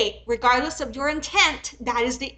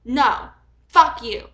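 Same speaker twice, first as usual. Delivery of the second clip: angry; 4 dB louder, slower than usual. Real, not acted. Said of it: "I got all pissy".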